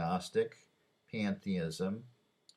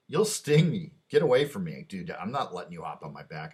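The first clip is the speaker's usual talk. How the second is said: startled frog backing off, a hint louder; alarmed frog; 6 dB louder than usual. Retold or imitated. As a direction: push the scorpion away in alarm. Frog refusing in fable.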